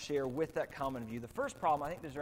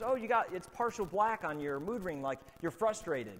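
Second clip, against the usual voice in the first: imitating sister; 3 semitones higher than usual. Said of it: "she goes".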